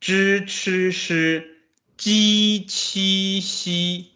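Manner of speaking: "Zhi, chi, shi" curled back, then "ji, qi, xi" with the tongue flat, said high; teacher contrasts the two rows; two sound series. Shown as a demonstration. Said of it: "can you hear the difference when I pronounce that?".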